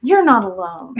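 lightly played ad reassurance; mock infomercial host consoling viewers. Podcast host consoling ashamed listeners, mock infomercial voice. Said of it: "It's like my infomercial".

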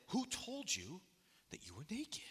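God's line dropped to a whisper; a hushed God asking Adam. A narrator's reading. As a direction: breathe the question softly, almost unvoiced. God's line read in scripture.

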